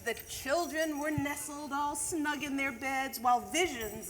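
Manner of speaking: lively storybook reading of a Christmas poem; a teacher reading The Night Before Christmas to the class; reading to children. Acted. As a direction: read it like a bedtime story to kids.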